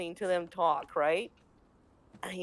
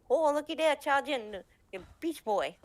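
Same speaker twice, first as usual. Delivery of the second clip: higher, louder sneering sing-song; Anglo-Saxon mocker; 7 semitones higher, 3 dB louder than usual. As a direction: call him out like a playground bully. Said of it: "little guy playing an Anglo-Saxon".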